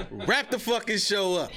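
high, laughing hype, dragged out slow; excited laughing. Real, not acted. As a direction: laugh it out, thrilled, stretching the words. Host cracks up, hype reaction.

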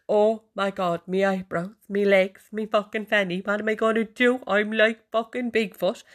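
high, hammed-up panic; mock freaking out. Women who can't get to their beauticians, mock panic. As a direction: imitate panicked wailing, dragging out the last words. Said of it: "women who are freaking out".

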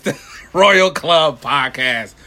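loud, high wrestling announcer shout. Acted. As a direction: hype it up like a wrestling promo. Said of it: "enough of the voice. ... Classic wrestle-, wrestling voice".

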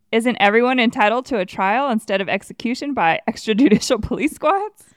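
hammed-up reporter's challenge; indignant reporter. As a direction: fire off a mock gotcha question, breaking into a laugh. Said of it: "hassled by the press with typical gotcha questions".

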